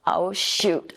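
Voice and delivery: breathy mock dismay, under the breath; whispered oh shoot. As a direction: whisper it like a small letdown. Wry thought about young readers.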